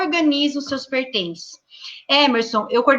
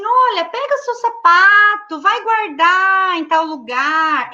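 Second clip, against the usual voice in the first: put-on higher, slow, kind directions to a small child; gentle instruction to a child; 5 semitones higher, slower than usual. Shown as a demonstration. Teacher crouches to tell a child where to put shoes, gentle and slow. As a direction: guide the child kindly, slowly. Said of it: "eu vou falar pra ela assim".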